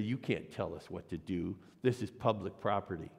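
lightly voiced snotty eleven-year-old, low and defiant; a hint of a sassy kid talking back. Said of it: "in his best snotty kid voice".

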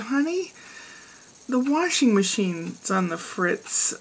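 timid wife. Retold or imitated. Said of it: "she's afraid to say anything".

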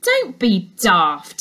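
slow, dismissive scoff. Acted. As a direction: brush the idea off, slowly. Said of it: "said the dog walker".

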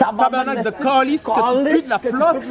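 repeating the curse through laughter; laughing while swearing. Real, not acted. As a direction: laugh the insult back.

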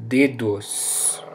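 dedos ends on a z, not an s; final z sound. Shown as a demonstration. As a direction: close dedos with a buzzing z. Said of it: "it often becomes a Z sound".

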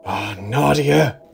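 high, slow moan; anguished moan. A narrator's reading. Ron trapped at the jammed door, moaning. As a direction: moan it, drawing out the name. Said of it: "I moaned".

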